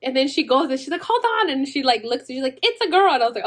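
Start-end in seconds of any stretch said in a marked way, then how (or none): 1.0-1.5 high nurse telling her to wait. Retold or imitated. Nurse checks the baby. 2.6-3.1 high, louder announcement; nurse announcing. Retold or imitated.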